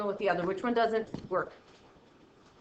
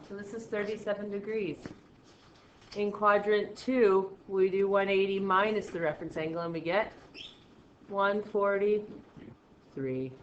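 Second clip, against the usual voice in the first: drawn-out, carefully level delivery; slow, uninflected talk. Shown as a demonstration. Teacher giving quadrant answers to class, slow and uninflected. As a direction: spell it out slowly without inflection. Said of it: "I'm going way too slow".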